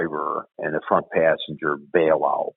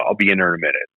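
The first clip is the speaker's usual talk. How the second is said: shouted brush-off; faster than usual. Retold or imitated. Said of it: "He's like".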